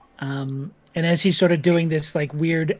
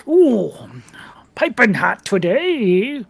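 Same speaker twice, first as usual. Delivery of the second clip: sly whispery tavern voice; 5 semitones higher, 5 dB louder, much slower than usual. Acted. GM voices Bimbus slurping soup.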